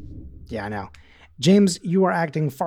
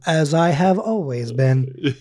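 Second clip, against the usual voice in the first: slow, measured imitation; mock-grave drawn-out quote; quoted solemn line; slower than usual. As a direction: deliver it as a stately catchphrase. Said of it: "He goes".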